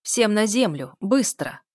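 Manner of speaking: loud barked order to get down; commanding tone. Acted. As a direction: give the order like a gunman in charge. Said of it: "произнёс командным тоном". (громкий командный тон)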